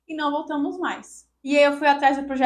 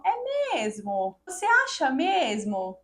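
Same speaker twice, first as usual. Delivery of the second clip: ironic doctor; much slower than usual. Retold or imitated. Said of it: "ele foi tão irônico, tão cínico".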